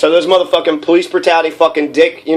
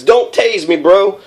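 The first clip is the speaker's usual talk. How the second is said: imitating a desperate plea; 4 semitones higher, slower than usual. Tased student begging officers, mock desperate plea. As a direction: beg them to stop, half mocking.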